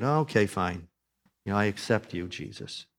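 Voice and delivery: half-hearted, resigned concession; grudging acceptance. Acted. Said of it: "there's some part of me that".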